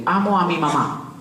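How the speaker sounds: voz aguda y cariñosa de tío que dicta a un niño; "Amo a mi mamá" silabeado para que lo repita; dictando al sobrino. Retold or imitated. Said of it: "Yo le digo". (tío enseñando un trabalenguas al sobrino pequeño)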